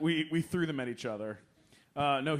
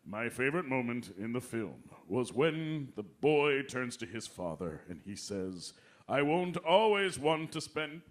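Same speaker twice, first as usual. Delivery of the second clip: Kelsey Grammer impression; 3 semitones lower than usual. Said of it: "he would go".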